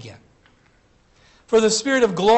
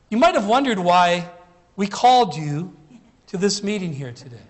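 twinkling, trembling voice. Retold or imitated. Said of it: "with a twinkle ... a trembling voice".

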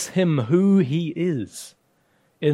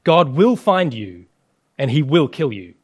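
loud warning; 5 dB louder than usual. Acted. Threat echoed as loud woe.

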